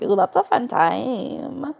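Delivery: dreamy mock delight. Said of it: "then it's like".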